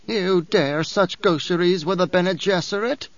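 lightly voiced haughty old priestess; a hint of a proud crone sneering at Paul; old Reverend Mother, disdainful.

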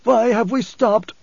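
high, slow, nasal demand; nasal blind man. A narrator's reading. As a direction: question the guide through nose plugs. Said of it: "His voice was nasal through the stillsuit plugs".

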